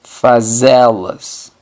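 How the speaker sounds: Fazê-las as fa-ZE-las, very slow; Portuguese answer. Shown as a demonstration. Teacher answers own drill question, slow model answer. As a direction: spell out Fazê-las by ear. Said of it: "¿Y cómo sería entonces hacerlas?".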